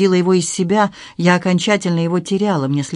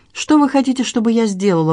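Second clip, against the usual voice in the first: sharp, higher anguished cry; exclaiming; 6 semitones higher than usual. A narrator's reading. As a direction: throw the question at him in despair. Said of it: "воскликнула я". (отчаянный возглас)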